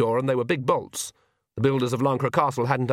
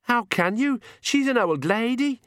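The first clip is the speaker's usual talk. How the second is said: high-pitched, appalled objection; indignant protest; 12 semitones higher than usual. A narrator's reading. Agnes protesting to the Count, high and indignant. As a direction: protest in shocked outrage, pitched way up.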